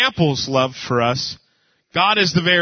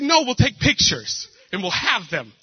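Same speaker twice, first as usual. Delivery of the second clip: high, rising mock rant; arguing against the photo booth, hammed-up high; 8 semitones higher than usual. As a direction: whine it in a high comic voice. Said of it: "She's like".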